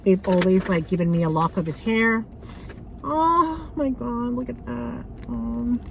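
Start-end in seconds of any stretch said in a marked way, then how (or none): 3.0-5.8 slow, tearful gasp of grief; real tears starting; choked up. Real, not acted. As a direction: voice catching at the sight. Seeing her dead dog's hair.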